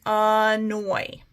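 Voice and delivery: ANNOY stretched into two clear beats; syllables drawn apart. Shown as a demonstration. Teacher showing two syllables in annoy, syllables drawn apart. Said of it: "I've got two syllables again".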